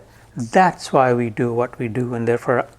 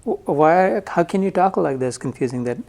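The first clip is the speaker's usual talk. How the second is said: incredulous Arjun. Retold or imitated. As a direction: protest in disbelief, voice pitched up. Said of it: "He even questioned Krishna".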